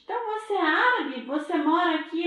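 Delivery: high, quick eager questions; eager boy meeting a new friend; curious child. Acted. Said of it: "Natan asks the Arab boy". (menino curioso e animado, voz aguda e rápida)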